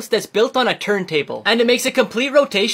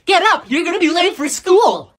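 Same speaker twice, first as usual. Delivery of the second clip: high, loud wake-up yell; mom yelling; 7 semitones higher, 4 dB louder than usual. Acted. Mom yelling at her kid to get up for school, high and loud. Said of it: "I'm sorry for yelling".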